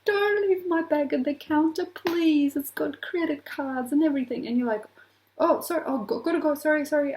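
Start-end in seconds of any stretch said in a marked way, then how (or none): 0.1-4.5 higher, louder panicked plea; mock frantic begging in a raised pitch; freaking out. Bag owner pleading with the person who took it, freaking out. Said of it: "And she's freaking out". 5.4-7.1 mildly hammed-up hurried excuse; flustered apology. Bag taker excusing themselves to the owner, flustered.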